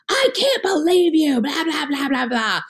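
high, indignant accusation that trails into blah blah; high mock outrage at the investor; indignant complaint. Confronting investor on phone.

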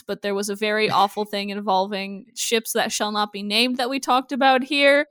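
flat, even disclaimer read; deadpan monotone delivery. Pretend. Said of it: "me saying in a very monotone voice".

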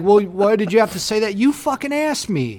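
mock indignant outburst. Imitating himself snapping at a nosy guest, exasperated. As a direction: snap back, fed up.

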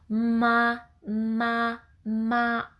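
light "ま" with a hint of ん before it; "ま" sung as "んま"; ma with a soft n. Shown as a demonstration. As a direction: start each "ま" from a tiny hum "ん". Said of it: "こういう感じで".

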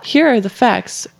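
slow, measured mock conspiracy theorist. Co-host imitating a numerology rant, conspiracy voice. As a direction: present it like a conspiracy buff, lightly acted. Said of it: "slipped into the conspiracy voice".

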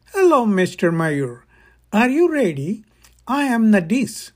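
a hint of a Russian accent, rising on the questions; light Russian accent. Tour guide greeting the author in a light Russian accent. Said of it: "a sweet voice with a little Russian accent".

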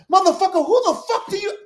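a furious yell. Shown as a demonstration. Demonstrating what yelling at her partner would sound like, furious shout. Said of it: "that is the trope of".

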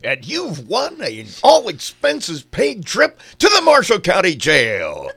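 lightly voiced game-show host; booming prize announcer. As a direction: announce the jail like a grand prize.

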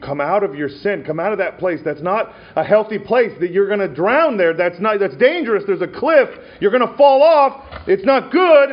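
begging that builds to a high, loud cry; pleading shepherd. Retold or imitated.

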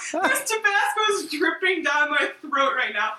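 excited shout. Real, not acted. Spicy snack excitement.

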